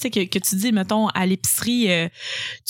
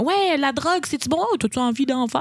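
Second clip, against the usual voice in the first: little sister voice; 5 semitones higher than usual. Retold or imitated. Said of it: "elle me demande comme".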